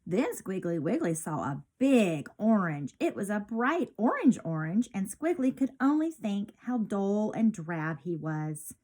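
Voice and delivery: lively storybook read-aloud; bright picture-book narration; reading to children. A narrator's reading. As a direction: read it like storytime for little kids.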